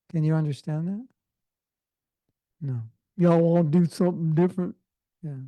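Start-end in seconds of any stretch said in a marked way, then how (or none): 3.2-4.8 lightly put-on American Southern accent. Teacher repeating the Southern phrasing for students, light Southern accent. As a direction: playfully mimic how Southerners ask it. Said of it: "That's how they talk".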